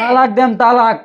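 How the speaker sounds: son-in-law angrily threatening to divorce his wife; angry threat. Acted.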